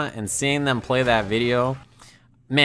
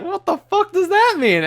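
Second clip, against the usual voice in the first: very high, squawked disbelief; incredulous, pitched way up; retold outrage; 4 dB louder than usual. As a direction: act out a friend's high-pitched indignant outburst. David's outraged reaction retold.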